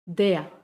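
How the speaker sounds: "der" ending in an open A sound; vocalized final R. Shown as a demonstration. Teacher demonstrating "der" with final R as A. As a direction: let "der" glide into A, no R. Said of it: "termina como un sonido de A".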